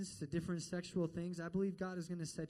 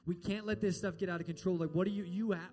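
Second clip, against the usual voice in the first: a doctor demanding she come in now; alarmed doctor; 3 semitones higher, 8 dB louder than usual. Retold or imitated. Doctor phones Kay about her missed checkups, loud and urgent.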